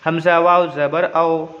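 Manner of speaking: spelling recitation. Shown as a demonstration. Teacher showing pupils how to read, measured even recitation. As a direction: recite each letter name evenly, then join them. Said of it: "नरमी आवाज़ के साथ जल्दी पढ़ना है".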